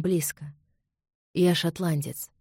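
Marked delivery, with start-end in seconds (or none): none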